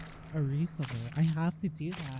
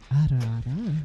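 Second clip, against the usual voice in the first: mock mommy voice; 3 semitones lower than usual. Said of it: "You're like".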